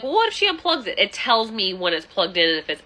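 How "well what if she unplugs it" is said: mocking doubter. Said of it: "people are like".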